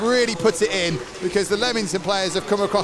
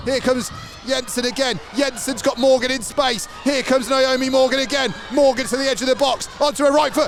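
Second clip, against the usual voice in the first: live play-by-play; 3 semitones higher than usual. Acted. Live match commentary.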